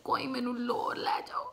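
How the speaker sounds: fast whispered Punjabi plea; quick hushed plea in Punjabi; desperate whisper. Retold or imitated. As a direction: beg under your breath to go home. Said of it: "I was like".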